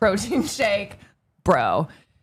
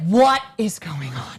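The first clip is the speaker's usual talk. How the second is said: startled, surprised exclamation. Describing the speaker's mother walking in on them: imitating Helen. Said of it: "she's like".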